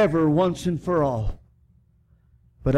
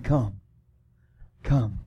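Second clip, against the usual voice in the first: gentle invitation; 6 semitones lower, 3 dB quieter than usual. Retold or imitated. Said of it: "The Holy Spirit is the one that's speaking, saying".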